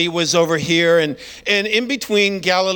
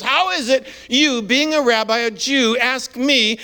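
shocked woman; 3 semitones higher than usual. Retold or imitated. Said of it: "she's shocked".

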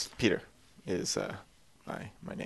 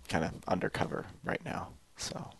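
whispering; 5 semitones lower, 11 dB quieter than usual. Acted. Confesses secret identity.

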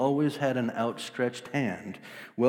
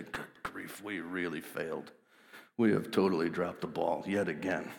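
much softer, lower, sheepish; dejected; 6 semitones lower, 7 dB quieter than usual. Retold or imitated. Disciples admitting failure, soft and deflated. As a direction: mumble it in shame.

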